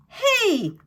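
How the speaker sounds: a badger's indignant grunt as he slips. A narrator's reading. Tommy Brock slipping on radishes, grunting loudly. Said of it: "grunted Tommy Brock".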